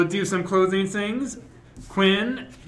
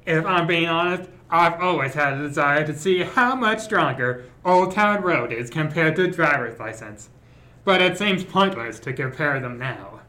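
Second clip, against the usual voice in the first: Hannibal Lecter voice. Acted. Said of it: "do a transatlantic accent slash Hannibal Lecter voice".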